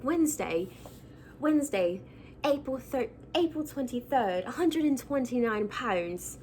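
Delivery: a light put-on British accent, reading a diary entry aloud. Reading Bridget Jones's diary to her viewers in a mild British accent. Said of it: "Don't pick at my British accent".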